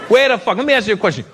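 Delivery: mock-angry, high demand; acted indignant challenge. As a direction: demand an answer like an offended boyfriend. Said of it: "this is what they do is when they get angry".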